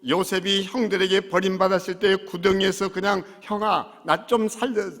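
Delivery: loud, driving sermon; fiery preaching. Acted. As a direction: preach it hard to the congregation. Preaching at full force.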